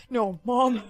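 a desperate shout after the sacrifice; anguished cry. Acted. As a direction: cry out for his mother in anguish. Son sees mother die.

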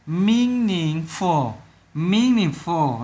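"Meaningful" very slow, stress on MEAN; first-syllable stress. Shown as a demonstration. Teacher showing pupils the stressed syllable, first-syllable stress. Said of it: "là nhấn âm đầu".

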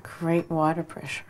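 slow deadpan praise, Great stretched out; mock compliment on the shower; slow dry sarcasm; sarcastic. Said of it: "Great sarcasm".

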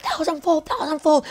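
decreeing. Retold or imitated. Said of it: "I'm decreeing it".

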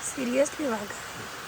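slow, earnest stress on seriously; serious emphasis. Real, not acted. Mother insisting to viewers a tiger really lives here, slow and earnest. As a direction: lean on seriously to show you are not joking. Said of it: "मस्करी नाही करत मी".

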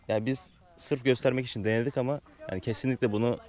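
speaking with a numb tongue; words dulled by a numb tongue. Real, not acted. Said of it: "şu an hala dilim uyuşuk".

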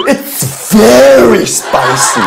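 drawn-out laughing mock shout "It's very spicy."; exaggerated American. Imitating Americans tasting food, hammed-up. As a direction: overact the spice like an American. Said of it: "말로 안 되니까 이걸로".

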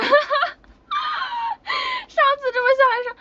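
high, loud words breaking through helpless laughter; gasping the words out mid-laugh; real laughing fit, near tears. Real, not acted. Collapsing into laughter.

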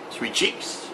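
breathy whispered come-on; soft flirty whisper. Acted. Husband flirts with his wife, whispered. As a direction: whisper it to her teasingly.

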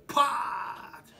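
sharp voiceless smack noise; punch sound effect. Retold or imitated. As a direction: imitate a punch landing. Punch sound in fight story. (ηχητικό εφέ μπουνιάς)

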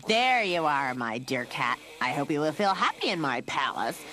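loud, mock-welcoming villain; put-on cat catcher voice, triumphant; gloating villain. A narrator's reading. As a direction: welcome your prisoner with false courtesy. Cat catcher gloats over captive.

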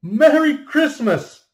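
high, loud, slow burst of Merry Christmas; childlike joy. Acted. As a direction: call it out with a child's pure delight. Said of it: "I say it as a child says it".

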